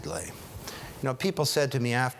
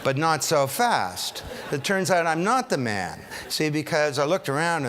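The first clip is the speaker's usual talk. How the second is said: podium speech; 4 semitones higher, 4 dB louder than usual. Real, not acted. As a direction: punch it to the room. Speaker corrects his own boast.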